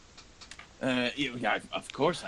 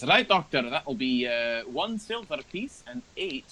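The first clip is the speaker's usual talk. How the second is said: barmaid asking payment; 2 semitones higher than usual. Acted. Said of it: "and she says".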